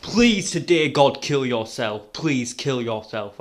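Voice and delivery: slow, drawn-out plea, loud on the first please; begging. Real, not acted. Vlogger imploring the man from the clip, begging. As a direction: beg slowly, stressing each plea. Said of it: "I genuinely beg you".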